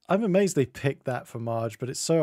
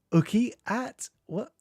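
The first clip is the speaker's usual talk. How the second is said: duck voice; 9 semitones higher, slower than usual. Retold or imitated. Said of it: "that was a duck sound".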